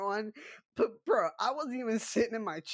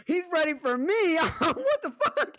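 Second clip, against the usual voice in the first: laughing; 9 semitones higher, 4 dB louder than usual. Real, not acted. Laughing in disbelief retelling fight.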